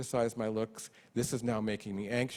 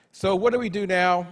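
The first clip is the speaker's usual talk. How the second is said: laughing; 8 semitones higher, 11 dB louder than usual. Real, not acted.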